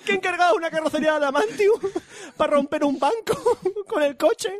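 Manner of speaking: mock indignation.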